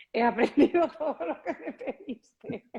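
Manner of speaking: laughing mock quote. Joking quote to a guitarist.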